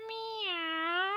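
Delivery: soft, small trying meow; puppy's first meow. Acted. Puppy Lenny finally meowing softly. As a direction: attempt a shy meow. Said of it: "Yes, that's it".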